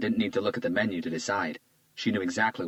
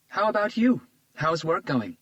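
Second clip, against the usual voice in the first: put-on lightly raised, charmed young woman; a flattered young woman, a bit higher; Isabella's voice; 11 semitones higher, 5 dB louder than usual. A narrator's reading. Isabella charmed by Hunter's compliment, lightly higher voice. Isabella asking about work.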